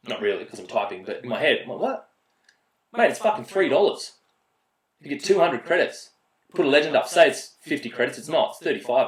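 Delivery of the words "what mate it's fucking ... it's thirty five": exasperated disbelief. Retold or imitated. Inner rant at broke teammate.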